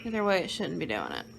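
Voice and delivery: fast whispered grumble. Real, not acted. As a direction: mutter it under breath. Frustrated aside to husband.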